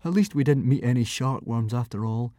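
words pushed through gritted teeth. A narrator's reading. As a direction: grit your teeth and say it. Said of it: "said Hiccup through gritted teeth".

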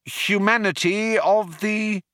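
bluffing Arthur. A narrator's reading. Arthur resuming his praise, earnestly bluffing. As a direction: stretch it out while improvising.

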